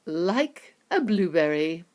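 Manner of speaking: slow, dry correction; a hint of the mild inventor; calm Wonka. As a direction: Wonka dryly correcting the mother. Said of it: "said Mister Wonka".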